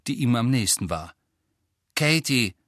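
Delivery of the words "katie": one short word; brief, matter-of-fact reply; terse. A narrator's reading. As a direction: answer curtly with just the name. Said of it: "bemerkte sie knapp".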